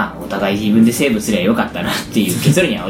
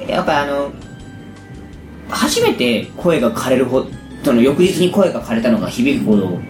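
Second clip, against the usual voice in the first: hoarse voice. Real, not acted. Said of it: "聞いててわかると思いますけど".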